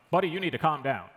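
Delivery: lightly imitated bro; a hint of a bro telling someone off. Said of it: "because that's how he sounded".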